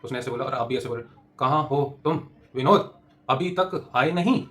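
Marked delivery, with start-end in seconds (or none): 1.4-4.5 slow, dragged parroting with rising ends; copying the prompter. Shown as a demonstration. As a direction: drawl each word like a rote copy. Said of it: "prompt में ऐसे मत कर देना".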